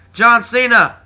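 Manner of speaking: loud, high name announcement; Jon Stewart. Retold or imitated. Host announcing a wrestler to the crowd, loud high call. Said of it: "Jon Stewart just kinda came out and just like".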